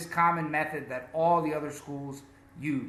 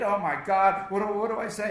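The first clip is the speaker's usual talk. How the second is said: acted puzzled inner monologue; mock-flustered questioning; confused learner; faster than usual. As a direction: play a learner fretting over pronunciation. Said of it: "He is confused".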